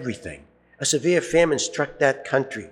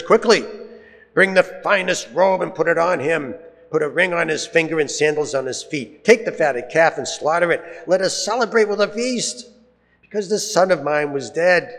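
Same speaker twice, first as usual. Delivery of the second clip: eager command; 4 semitones higher than usual. Acted. Father orders servants in joy.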